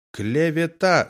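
high indignant roar. A narrator's reading. Commandant roaring at his accuser, high bellow. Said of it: "заревел Луценко".

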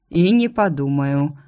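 slow, unbothered refusal; coolly calm, taking his time; unruffled. Acted. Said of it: "невозмутимо заявил дракон". (невозмутимо и неторопливо)

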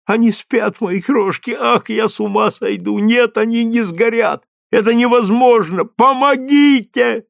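anxious mother's voice, rising to a cry for help; a frantic mother fearing for her sleeping children; desperate mother. Acted. Mother at the burning tower, pleading in rising panic.

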